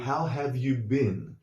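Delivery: "How have you been?" slow and fully spelled out; careful textbook reading; full form. Shown as a demonstration. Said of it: "Which would be more like".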